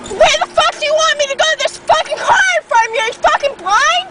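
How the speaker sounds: exasperated rant. Real, not acted. Venting at honking driver.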